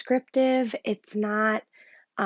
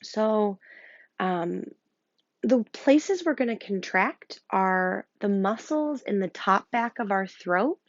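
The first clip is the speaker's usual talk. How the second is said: hushed breathing guide; guided meditation. Acted. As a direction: coax them to listen to their breath.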